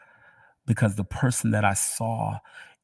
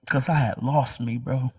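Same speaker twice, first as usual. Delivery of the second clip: fighting through tears, half whispered; crying; 3 semitones higher, 3 dB quieter than usual. Real, not acted. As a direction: overcome and crying as she testifies. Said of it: "I'm crying".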